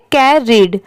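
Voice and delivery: "कैरीड" with d after the ee; pronunciation demo. Shown as a demonstration. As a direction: say "कैरीड" as carry closed by a final d. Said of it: "इसे हम पढ़ेंगे". ("कैरीड" के अंत में ड की sound)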